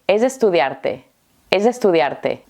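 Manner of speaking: ELLA ESTUDIA ARTE merged as "eyestudiarte"; très rapide. Shown as a demonstration. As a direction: say it fast in one linked run. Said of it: "Lo voy a decir muy rápido".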